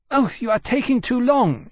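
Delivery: impatient dragon. A narrator's reading. Impatient dragon Iskiaka voiced.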